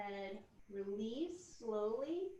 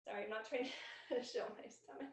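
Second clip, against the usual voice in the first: quick, embarrassed laugh through the words; laughing apology; faster than usual. Real, not acted. Teacher apologizing to class for showing her stomach, laughing. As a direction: giggle it off as you apologize.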